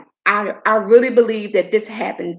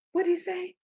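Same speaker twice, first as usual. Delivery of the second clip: high, incredulous self-talk; incredulous aside to yourself; retold disbelief; 7 semitones higher than usual. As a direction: replay the shock in a raised voice. Retells asking herself in shock.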